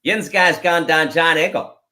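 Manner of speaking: the Pittsburgh phrase repeated with a light Yinzer accent. Shown as a demonstration. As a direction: say it again like a Pittsburgh local. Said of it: "say it again".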